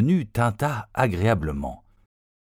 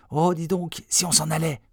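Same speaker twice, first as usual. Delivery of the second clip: timid suggestion; 8 semitones higher than usual. A narrator's reading. Scared boy suggests fleeing.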